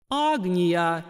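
a chanted, ringing call; booming goddess voice. Acted. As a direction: summon her like a deity. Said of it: "прогремел голос".

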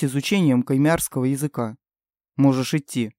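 a hint of a stern king; low steady royal father. King's voice again.

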